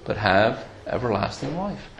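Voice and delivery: reverent Bible reading; scripture reading. Acted. Reads John 3:16 aloud.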